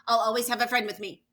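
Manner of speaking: loud, fast blurt of the last line. Acted. Philip suddenly remembers and blurts the line loud and fast. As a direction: shout it out in a rush, relieved. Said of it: "blurted out".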